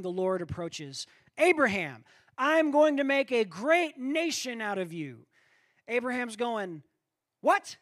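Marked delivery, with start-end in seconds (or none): 1.4-5.3 voice of God. Acted. The Lord speaks to Abraham. 7.4-7.8 high, loud startled yelp; Abraham jolts in disbelief; startled what. Acted. Abraham stunned by God's promise, high startled what.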